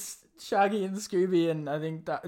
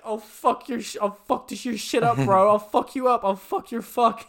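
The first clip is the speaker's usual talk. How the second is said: imitated rant, mostly louder; mock a singer spluttering threats; intimidating threats; 3 semitones higher, 6 dB louder than usual. Storyteller as singer intimidating a teenager, mock angry threats. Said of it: "he's, he's intimidating".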